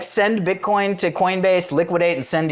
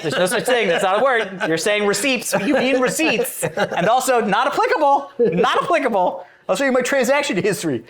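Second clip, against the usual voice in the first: put-on Jerry's accent; 4 semitones higher than usual. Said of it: "he's like".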